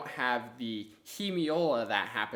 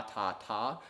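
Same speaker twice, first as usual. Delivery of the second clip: ordinary delivery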